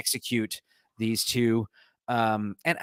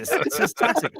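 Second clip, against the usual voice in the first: put-on higher, a Northern English accent sliding into Irish; accidental Irish accent. Reading a headline, accent drifting into Irish. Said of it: "I said Irish".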